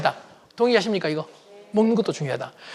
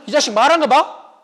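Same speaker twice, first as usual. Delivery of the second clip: higher indignant scold; scolding father; 6 semitones higher than usual. Retold or imitated. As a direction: tell off a rude son. (아들을 나무라는 아빠 말투)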